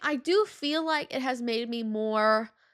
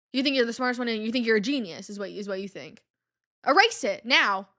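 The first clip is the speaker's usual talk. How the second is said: mock teacher rant; faster than usual. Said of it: "she, like, went in on me".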